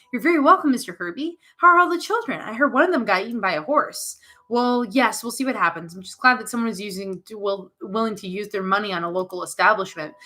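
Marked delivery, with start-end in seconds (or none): 0.1-4.2 put-on playful child. Little Alex at tea party.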